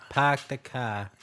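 slow, low, soft Boston accent. Shown as a demonstration. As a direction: ease slowly into a Boston accent. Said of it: "Boston accents?".

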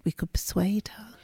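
conspiratorial whisper; softly plotting to get the guest to sing. Real, not acted. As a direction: whisper it like a secret plan. Conspiratorial aside about the guest.

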